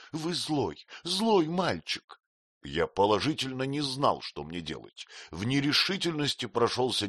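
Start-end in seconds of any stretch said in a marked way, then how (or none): 0.1-2.2 high, slow pouting reproach; pouting repeat. A narrator's reading. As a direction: sulk it out. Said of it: "всё повторяла". (надутый упрёк, выше и медленно)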